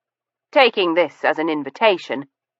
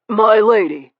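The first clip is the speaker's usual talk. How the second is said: courtly; 5 semitones higher, 4 dB louder than usual. A narrator's reading. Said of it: "with a courtly gesture".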